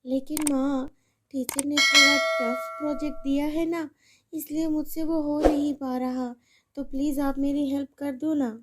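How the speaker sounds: put-on a little girl begging her mother for help; pleading little girl. Daughter pleads again.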